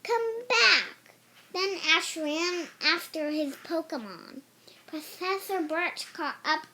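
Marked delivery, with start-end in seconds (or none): 0.0-1.1 high, loud pleading call; yelled. A narrator's reading. Ash yelling after runaway Pikachu, high and loud. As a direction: shout after him to come back. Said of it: "Ash yelled".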